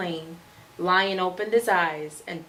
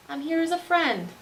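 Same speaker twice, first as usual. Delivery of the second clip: a touch higher, small squeaky voice; peeping mouse; 4 semitones higher than usual. Acted. Mouse reassures the scared lion, lightly higher peep.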